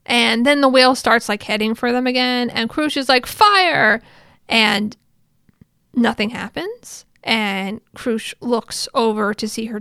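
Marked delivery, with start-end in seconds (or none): 3.2-4.0 mock battle command, higher; raised, retold battle cry. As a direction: call out an order to the troops. Acted battle command to troops.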